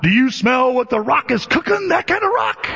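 high, punched-up catchphrase delivery; The Rock. Retold or imitated. Preacher mocking the crowd's idea of Rock, hyped wrestler imitation.

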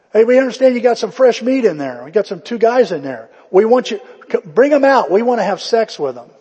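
loud leering mob voices; a mild hammed-up mob at the door; rowdy mob. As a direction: demand it like a pushy crowd.

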